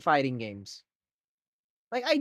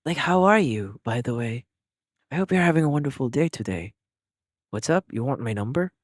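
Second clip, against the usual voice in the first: mock boyfriend ASMR; 2 semitones lower than usual. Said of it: "my B F E".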